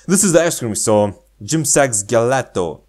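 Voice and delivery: line through laughter; laughing. Real, not acted. Showing the ice cream store while laughing. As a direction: let the laugh spill into it.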